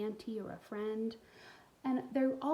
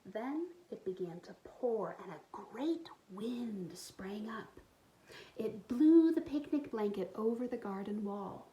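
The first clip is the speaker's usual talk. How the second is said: put-on expressive read-aloud for young kids; storybook reading; 3 semitones higher than usual. A narrator's reading. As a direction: tell the story warmly to little listeners. Reads picture book aloud.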